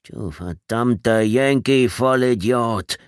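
slow, drawn-out cursing; muttered curse. A narrator's reading. Trader Vic cursing Tommy as he passes, muttering. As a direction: curse him slowly, as if to yourself. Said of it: "wie Trader Vic leise murmelte".

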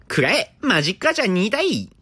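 high, loud attack call; screaming attack name. Pretend. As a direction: yell the attack like an anime hero.

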